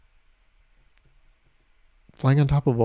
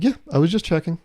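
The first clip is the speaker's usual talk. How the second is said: pitched-up mimic of the TSA guy's defensive reply; mock his casual excuse; 4 semitones higher than usual. Mimicking the TSA guy at security, mocking. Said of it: "the T S A guy was like".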